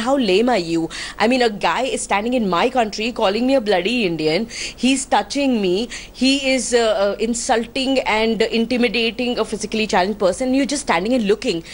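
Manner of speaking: retold anger, insistent but not shouted; angry rebuke. Passenger rebuking the crew standing by, retold anger. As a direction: scold the onlookers with controlled indignation. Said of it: "I get really, uh, you know, angry".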